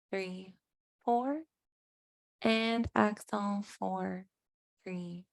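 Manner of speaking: soft, calm breath-counting voice; hushed yoga teacher leading meditation; guided meditation. Acted. Leads breathing and intention setting.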